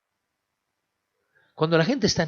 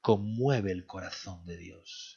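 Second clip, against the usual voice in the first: quieter, slow, each word weighed on "Conmueve el corazón de Dios"; soft slow emphasis; 3 semitones lower, 4 dB quieter, slower than usual. Acted. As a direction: lay it down gently and slowly. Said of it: "repeated key phrase, softened".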